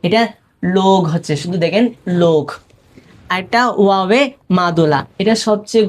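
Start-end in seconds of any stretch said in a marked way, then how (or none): 0.8-1.0 লোগ with a held o vowel; majhul o. Shown as a demonstration. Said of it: "এটা শুধু ও উচ্চারণ হবে". 2.2-2.4 লোগ with a clear long o; majhul o. Shown as a demonstration. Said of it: "এটা শুধু ও উচ্চারণ হবে".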